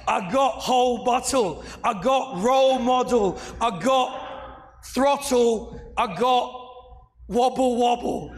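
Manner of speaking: slowing down to mock the rival's rhymes. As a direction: drag out "throttle" and "wobble wobble" as a parody. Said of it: "He said online in The Star".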